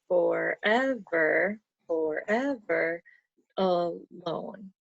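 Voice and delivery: slow, forever drawn out beat by beat; counting syllables. Shown as a demonstration. Teacher counting the example line for her student. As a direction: read it slowly to count. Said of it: "forever is three syllables".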